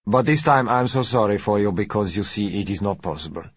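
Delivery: a touch of false regret, smooth; sorry in tone only, sly and easy; lightly voiced suave Latin gentleman, mock sorry. A narrator's reading. Umberto feigns sympathy.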